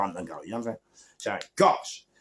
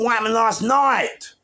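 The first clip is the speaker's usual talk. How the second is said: loud, high, insistent question; demanding; 13 semitones higher, 7 dB louder than usual. Retold or imitated. Narrator demanding answers from Ian, loud and insistent.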